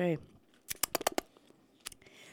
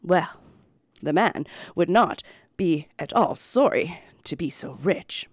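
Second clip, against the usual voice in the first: story narration. Acted.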